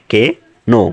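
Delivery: "কে নো" as two separated syllables; প্রমিত উচ্চারণ. Shown as a demonstration. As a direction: break the word into "কে", pause, "নো". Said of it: "এটার প্রমিত উচ্চারণটা হচ্ছে". ("কে নো" আলাদা করে ধীরে উচ্চারণ)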